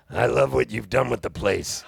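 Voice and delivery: dry deadpan quip; dry sarcastic. Retold or imitated. Dry sarcastic, in the manner of a singer-songwriter.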